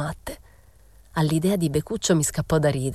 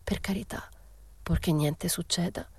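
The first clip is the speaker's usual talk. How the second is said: balbettio ansioso; 2 semitones higher, 7 dB quieter than usual. A narrator's reading. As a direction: falter anxiously, with pauses, barely voicing it. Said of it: "Balbettò". (supplica esitante a voce fioca)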